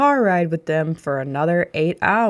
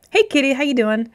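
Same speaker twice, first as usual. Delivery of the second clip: higher, sing-song voice for the cat; cat greeting; 6 semitones higher than usual. Real, not acted. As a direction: coo a hello to the kitty. Greeting the cat mid-story.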